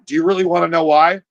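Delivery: mildly coaxing motherly question; sweet mom. Acted. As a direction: ask it gently, lightly acting the mom. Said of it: "that is so sweet".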